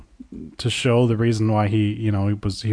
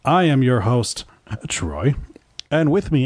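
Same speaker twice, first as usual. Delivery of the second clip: bright event host. Acted. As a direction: show host welcome with a ring-announcer swing. Host opens the show.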